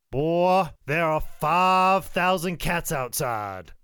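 loud, slow, stretched-out exaggeration; Ricky Morton. Ricky walking in with a tall tale, astounded. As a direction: announce a wild tall tale, drawing out FIVE. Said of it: "he's like".

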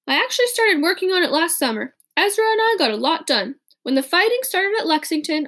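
put-on an earnest young inventor explaining himself; David, earnest.

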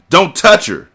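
high, loud protective shout. A narrator's reading. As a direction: bark it to stop them. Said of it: "Zaire shouted".

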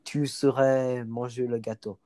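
speaking French in an everyday voice; casual French, lightly acted; French inner voice. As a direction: imitate your French-thinking brain. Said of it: "One of them is French".

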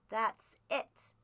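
loud, menacing sneer; bully the boy with open scorn; sneering threat. A narrator's reading. Blind man threatening the boy into obeying, loud sneer. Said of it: "he sneered".

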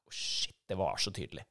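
quiet, amazed murmur; stunned aside. Retold or imitated. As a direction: say it under your breath, taken aback. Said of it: "Jeg bare".

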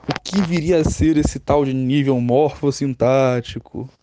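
slow, drawn-out ominous question; mock dread. Imagined student dreading the term morfossintático, slow mock dread. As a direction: draw it out like a feigned horror reveal.

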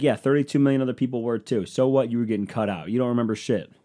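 brisk, loud, imitated dismissal; a dismissive singer. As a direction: imitate a star brushing off a fan. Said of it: "He'd be like".

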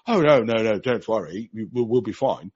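a hint of a soothing fund manager. Mock fund manager reassuring investors, lightly voiced. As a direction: brush off the worry, mock-reassuring. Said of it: "I'll say exactly the same".

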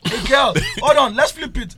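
shouting. Real, not acted. Shouting over the group.

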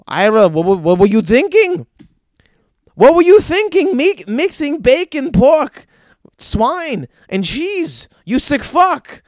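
put-on loud, high, outraged God in a Jewish accent. God berating Ira in hell over meat and cheese, outraged Jewish accent. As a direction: thunder the scolding in a Jewish accent. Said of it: "that was a spot-on Jewish accent".

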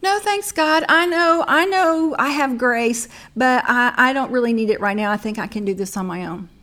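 high, loud, breezy brush-off; mock self-sufficiency. Mocking her own refusals.

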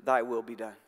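low, grave and final; a hint of a stern divine voice; God's verdict. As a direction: drop low and let it land as God's answer. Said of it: "to those whom God says".

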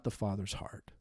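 sudden soft whisper. Acted. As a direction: drop to a hushed whisper on the key words. Sermon punchline dropped to whisper.

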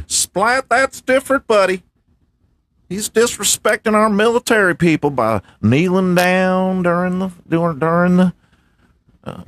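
high, huffy MAGA voice; MAGA man character. Acted. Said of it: "MAGA man".

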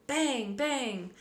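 two punched, falling bangs; voiced gunshots. A narrator's reading. Narrator voicing shots at the fleeing riders, punched.

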